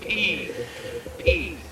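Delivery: crying out. Acted. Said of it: "America cries".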